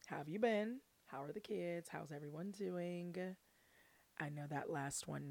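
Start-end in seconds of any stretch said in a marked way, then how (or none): none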